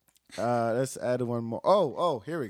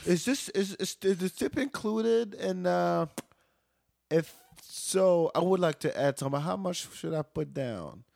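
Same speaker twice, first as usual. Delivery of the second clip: higher, slow, sly and flirty; smirking customer; 6 semitones higher, slower than usual. Retold or imitated. Flirty customer asking server about the tip, higher sly smirk. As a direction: lean in with a wink. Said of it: "says that with a smirk and a wink".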